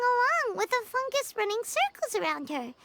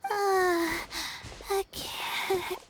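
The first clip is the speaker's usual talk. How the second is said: exhausted, near tears; much slower than usual. Acted. Exhausted girl collapsing.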